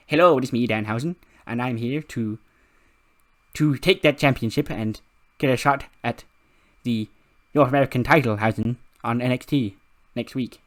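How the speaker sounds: lightly voiced theatrical wrestler; Danhausen. Danhausen asking for a title shot, light theatrical character voice. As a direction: open loud, then declaim the plan. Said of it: "after doing the Danhausen voice".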